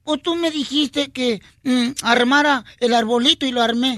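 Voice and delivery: put-on little boy. Joke son explains himself to mum, lightly childlike. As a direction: lightly play a child spelling out his excuse. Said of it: "Dice el niño".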